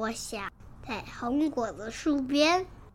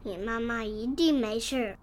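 gentle. Acted. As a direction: comfort the little one, easing off at the end. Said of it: "温柔地说". (霸王龙温柔地安慰小家伙)

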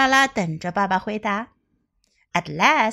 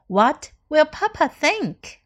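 slow model read; 4 semitones higher, slower than usual. Shown as a demonstration. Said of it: "teacher repeats model sentences".

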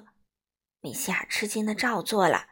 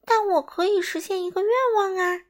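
high-pitched, moderately raised voice; loud declaration; 9 semitones higher, 4 dB louder than usual. A narrator's reading. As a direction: announce it eagerly and loudly. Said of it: "莱尼大声说".

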